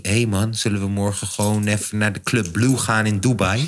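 low-pitched, even talking; low unheard tone. Shown as a demonstration. Describing what the deaf friend misses, low tone. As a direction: keep it low, as if out of earshot. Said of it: "omdat het op deze toon is".

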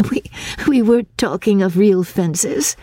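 high, lightly amused voice; laughing. A narrator's reading. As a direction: pitch it up with a touch of amusement.

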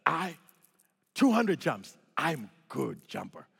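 broken English. Retold or imitated. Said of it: "limited lexicon that I have when it comes to English".

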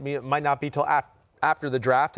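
burping while talking. Real, not acted. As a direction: talk through a coffee burp. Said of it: "I keep burping up my".

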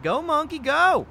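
high, loud mock cheer. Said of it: "I was like".

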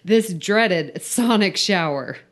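slow, emphatic mock-serious read-aloud; story read-out. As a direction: read slowly with mock importance. Reads the filled-in story aloud.

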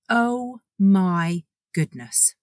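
slow, drawn-out oh my goodness; real delight at the offer; delighted gasp. Real, not acted. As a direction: savour the good news, slowly.

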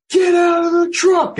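high, loud barked order to the squad; shouted command. Retold or imitated. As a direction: yell it like a squad leader getting men out. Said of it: "I call my guys, and I'm like".

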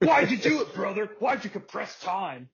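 mock crying Hogan. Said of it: "He's my Kefka".

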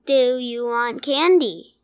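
lightly jittering bee-made voice; a hint of buzzing wobble in the words; halting, almost robotic monster impression; Candyman. Shown as a demonstration. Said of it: "kind of a jittering in his voice".

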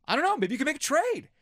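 sarcastic faux-naive musing. Real, not acted. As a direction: feign wide-eyed surprise at the obvious. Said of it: "If I sound like I'm being super sarcastic".

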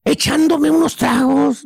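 slowly pondering a quoted clue; slow deduction. Acted. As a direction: mull the words over slowly. Slowly replaying the clues in thought.

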